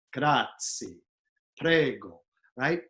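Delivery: Italian accent with full final vowels; Italian pronunciation. Shown as a demonstration. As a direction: land the end vowels in Italian style. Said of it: "Italian words end with a vowel".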